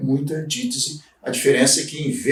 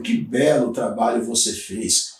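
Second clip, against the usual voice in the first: ironic; 3 semitones lower than usual. Shown as a demonstration. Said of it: "Estou usando uma ironia".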